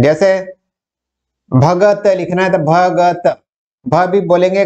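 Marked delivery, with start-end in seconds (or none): 1.5-3.2 भगत said slowly, every sound clear; careful pronunciation. Shown as a demonstration. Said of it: "जैसा लिखते हैं वैसा ही बोलते हैं".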